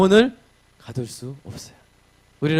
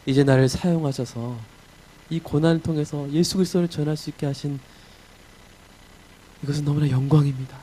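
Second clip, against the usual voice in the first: humble prayer. Acted. Paul's prayer continues.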